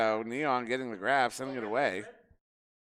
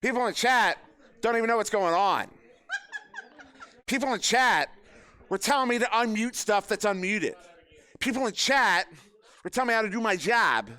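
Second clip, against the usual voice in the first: laughing rant; 8 semitones higher, 4 dB louder than usual. Real, not acted. Mock rant about chat.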